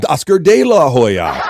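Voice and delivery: Oscar De La Hoya said loud with a laugh; loud laughing read. Shown as a demonstration. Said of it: "I like the variation".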